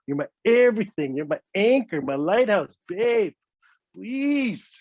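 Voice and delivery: mock wheedling apology in swooping phrases; hammed-up lovey-dovey pleading; pleading baby talk. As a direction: coax and beg like a sweet-talking partner. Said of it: "Start talking baby talk to her".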